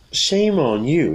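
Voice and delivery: slow, high-pitched telling-off; acted, drawn-out reprimand; scolding. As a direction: scold with each word stretched. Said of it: "You could scold someone".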